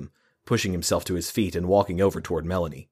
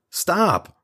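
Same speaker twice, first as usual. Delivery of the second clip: very high, loud command; shouted stop; 12 semitones higher, 3 dB louder than usual. Acted. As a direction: shout them apart. Stepping between two fighters.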